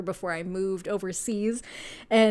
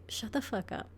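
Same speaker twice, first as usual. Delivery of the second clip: hushed whisper, much softer; whispered shut up; 10 dB quieter than usual. Acted. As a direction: whisper it like a secret scolding. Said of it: "the universe is like".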